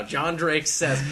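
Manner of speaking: drawn-out mock headline. John Drake imagining the writer's headlines, mock headline announcement. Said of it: "writing the headlines now".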